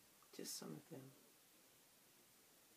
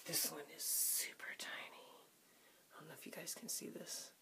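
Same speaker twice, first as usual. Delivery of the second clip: whispering; 8 dB quieter than usual. Real, not acted. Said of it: "whispering over tiny brush".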